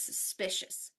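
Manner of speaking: "suspicious" with SPI stressed, first syllable reduced; stress on second syllable. Shown as a demonstration. Teacher drilling word stress with students, second syllable stressed. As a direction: lean on the middle of "suspicious". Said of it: "The stress is on the second one".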